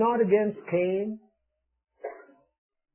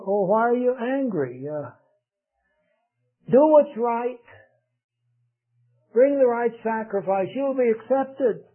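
pleading God; 6 semitones higher than usual. Retold or imitated. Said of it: "he pleads with him".

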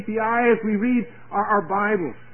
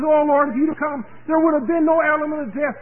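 higher, impassioned preacher's quote; fervent plea; 5 semitones higher, 4 dB louder than usual. Retold or imitated. Preacher voices Mary speaking to the Lord, fervent plea. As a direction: plead it with raised pitch, voicing someone else.

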